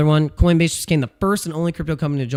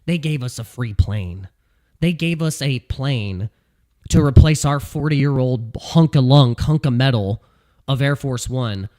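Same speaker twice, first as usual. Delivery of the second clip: Trump impression; 2 semitones lower than usual. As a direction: boast about the free plane like Trump. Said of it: "That's how he would say it".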